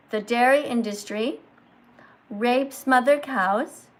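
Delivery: slow, emphatic phrases with long pauses; slow teacher reading. Shown as a demonstration. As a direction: read it out slowly, pausing after each phrase. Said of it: "teachers speak slowly and they pause".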